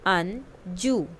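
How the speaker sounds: "अंजू" slowly, both syllables drawn out; slow model word. Shown as a demonstration. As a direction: stretch the name for the class. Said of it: "listen to your teacher and say the following word". (धीरे-धीरे खींचकर "अंजू")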